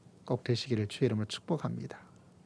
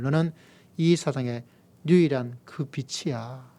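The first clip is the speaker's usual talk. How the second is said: slow, emphatic preacher's declaration; preaching God's voice. Acted. Preacher voicing God to believers, slow and fervent. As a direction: proclaim each word slowly as God's promise.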